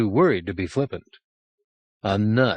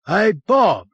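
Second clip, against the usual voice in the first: louder, higher call to the next room; 10 semitones higher, 6 dB louder than usual. A narrator's reading. Sergeant calls the constable from next room, louder. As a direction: call across to the other room. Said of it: "He called out to a constable".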